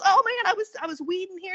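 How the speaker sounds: put-on high-pitched retelling in a light New Orleans accent. Worker explains himself to woman, lightly imitated New Orleans accent. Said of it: "New Orleans accent".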